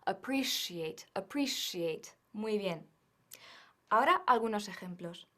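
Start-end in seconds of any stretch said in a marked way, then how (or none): 0.0-2.1 appreciate said slowly with sh; teacher modelling appreciate with sh; model pronunciation. Shown as a demonstration. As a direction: repeat appreciate slowly for students, a-pree-shee-ate. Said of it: "Repite conmigo".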